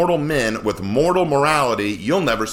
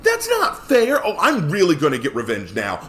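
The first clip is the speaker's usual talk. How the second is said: indignant tantrum. Acted. Preacher voicing sulking Samson to the congregation, mock indignant. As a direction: whine it like a sore loser.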